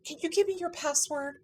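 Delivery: high-pitched imitated Southern Utah accent. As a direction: imitate a phone clerk's Southern Utah accent, asking sweetly. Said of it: "got this thick Southern Utah accent".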